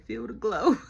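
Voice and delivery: a loud, punchy "Feel the glow"; loud catchphrase. Retold or imitated. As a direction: belt out the catchphrase. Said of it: "and said".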